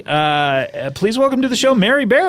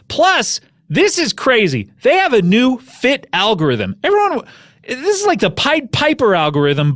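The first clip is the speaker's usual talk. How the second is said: lively podcast ad read; host selling a sponsor; 3 semitones higher than usual. Real, not acted. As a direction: pitch the product with punchy emphasis.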